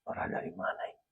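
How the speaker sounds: whispered question to himself; startled whisper. Retold or imitated. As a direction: whisper it, wondering where the voice comes from. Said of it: "Saya dengar".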